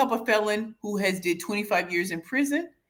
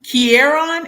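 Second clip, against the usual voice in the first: higher, louder asking tone; louder questioning try; 6 semitones higher, 9 dB louder than usual. Shown as a demonstration. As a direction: ask if the name is right. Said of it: "Am I saying it right?".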